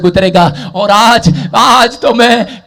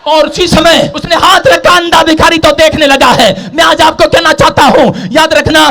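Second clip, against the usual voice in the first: loud, high-pitched sustained sermon delivery; full-force preaching; 8 semitones higher, 4 dB louder than usual. Acted. Preacher retelling Jericho to the congregation, full-force preaching. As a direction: preach it in a driving, unbroken shout.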